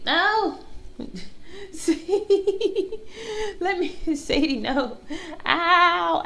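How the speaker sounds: high, squeaky laughing protests; laughing pleas. Real, not acted. Dog on her face, high laughing pleading. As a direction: beg the dog through laughter.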